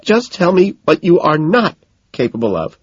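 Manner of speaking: high-pitched acted tearful demand; hammed-up distraught girlfriend; sobbing. A narrator's reading. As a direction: plead through imitated sobs.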